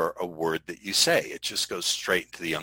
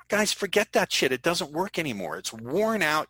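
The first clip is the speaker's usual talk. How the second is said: exasperated outburst; 8 semitones higher than usual. Real, not acted. Sales coach dismissing old tricks, much higher and disgusted. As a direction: throw it away with scorn. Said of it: "exasperated outburst".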